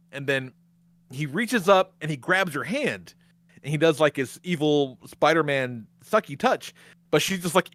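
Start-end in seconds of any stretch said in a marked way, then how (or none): none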